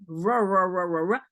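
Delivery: ra repeated with a throaty French R; French throat R drill. Shown as a demonstration. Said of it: "in the throat".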